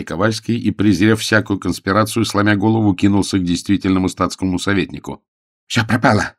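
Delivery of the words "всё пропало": panting, raised cry; breathless cry. Acted. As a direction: gasp it out in alarm. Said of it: "задыхаясь, крикнул он".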